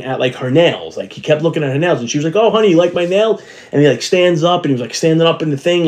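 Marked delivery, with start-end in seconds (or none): 2.4-3.4 put-on higher, sweet "honey" to a little boy; higher mock-sweet lady voice. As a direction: coo at the child like the friendly agent. Quoting woman to son.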